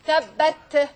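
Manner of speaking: "tabbat" split as tab-bat; "tabbat" with both halves firm; doubled consonant demo. Shown as a demonstration. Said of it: "you can have like this".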